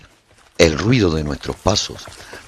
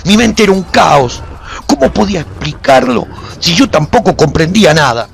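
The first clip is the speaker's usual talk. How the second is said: higher and louder, driving the chaos of the fight; intense battle narration; 10 semitones higher, 8 dB louder than usual. A narrator's reading. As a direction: narrate it like your mind is breaking in battle. Frantic battle climax narration.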